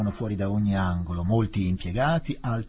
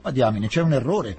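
1 protesting; 3 semitones higher, 6 dB louder than usual. Acted. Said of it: "disse Fielding".

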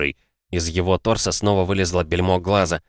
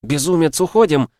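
high, loud frightened cry; panicked shout; 9 semitones higher, 5 dB louder than usual. Acted. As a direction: yell at him to get out. Diana begs him to flee.

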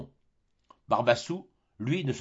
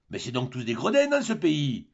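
mock yell; 3 semitones higher than usual. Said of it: "hurla le malheureux Tarasconnais".

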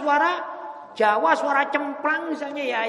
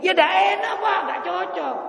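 ordinary delivery

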